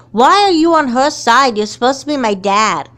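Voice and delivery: furious hurt accusation; angry shout. Acted. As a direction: yell at dad for taking her side. Daughter feels dad betrays her.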